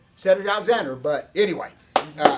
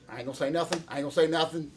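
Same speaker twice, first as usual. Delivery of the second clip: mock cagey mumble; 6 dB quieter, faster than usual. Real, not acted. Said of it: "grounds that can incriminate me".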